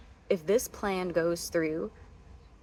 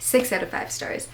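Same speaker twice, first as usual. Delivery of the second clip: excited rating; 5 semitones higher, 5 dB louder than usual. Real, not acted. Enthusiastic rating.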